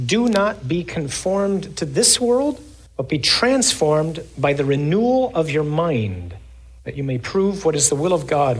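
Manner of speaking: measured, solemn scripture reading. Acted. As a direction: read it out to the congregation. Reads scripture in sermon.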